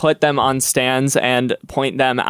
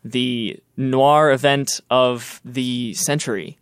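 flight attendant. Acted. Mock announcement opening the audio drama.

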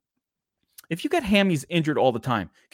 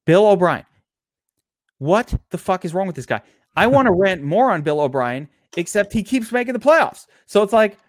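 hammed-up rant; 3 semitones higher than usual. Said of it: "You go to rant".

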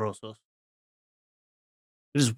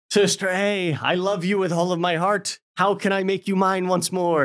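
lightly hammed-up romantic pleading, pitched higher; overdone lover's vow, half in jest; mock lovesick plea; 6 semitones higher than usual. Retelling the brother begging his lost love, mock tender. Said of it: "he's like".

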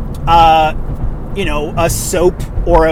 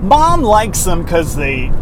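commercial read; slower than usual. Shown as a demonstration. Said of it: "I'm trying to think of one".

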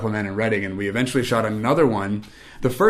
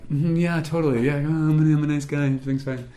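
fake cheerful; 5 semitones higher than usual. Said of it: "But outwardly, I'm like".

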